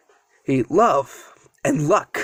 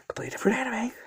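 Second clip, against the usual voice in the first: soft, under-the-breath correction; muttered aside; 7 semitones higher, 9 dB quieter, much faster than usual. Real, not acted. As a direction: drop your volume for a quick aside. Aside correcting own name slip.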